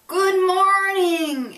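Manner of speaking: high, loud and slow, stretched out; booming loud voice. A narrator's reading. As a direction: boom the greeting across the house. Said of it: "Emily said in her Emily voice".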